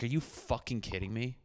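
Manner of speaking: soft, deflated disbelief under the breath; muttered disbelief. Retold or imitated. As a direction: say it quietly, beaten down. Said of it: "And I was just like".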